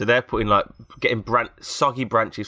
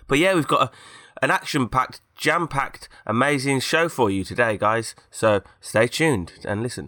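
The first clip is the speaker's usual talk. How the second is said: higher, slow, over-the-top presenter hype; hyped-up show host; 4 semitones higher, slower than usual. Pretend. Podcast host hyping the show to listeners in a false, higher presenter voice. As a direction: sell the show like a fake-cheery host, slowly. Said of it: "that makes it sound false".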